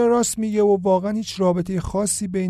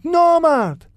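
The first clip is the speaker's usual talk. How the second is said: نامرد screamed far higher and louder, long falling cry; final scream; 12 semitones higher, 7 dB louder, slower than usual. A narrator's reading. Iman screaming the last insult at the bully. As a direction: let نامرد break out at the very top. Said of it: "فریاد میزد".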